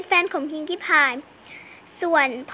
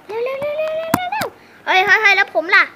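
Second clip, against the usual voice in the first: urgent character voice; 5 semitones higher, 4 dB louder than usual. Pretend. Pony rushing, left out.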